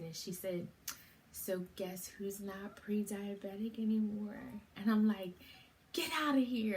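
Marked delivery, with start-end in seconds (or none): 1.3-4.4 hushed, breathy secret-sharing whisper; a teasing whisper of good news. Retold or imitated. Nurse shares good news secretly. 5.9-6.8 high, loud get outta here; can't believe the good news; a bright, stunned exclamation; amazed disbelief. Retold or imitated. Reacting to amazing news.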